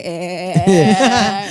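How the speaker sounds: comic shuddering stutter swelling into laughter; imitated body shaking. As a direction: act out a whole-body tremble in sound. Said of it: "getar, shaking, semua satu badan kayak".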